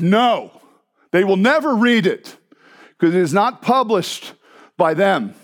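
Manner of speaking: firm, deliberate imitated German accent. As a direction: refuse emphatically in a German accent. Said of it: "she was a thick German accent".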